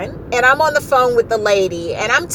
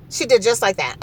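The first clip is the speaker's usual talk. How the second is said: laughing. Real, not acted. Laughs retelling the clerk.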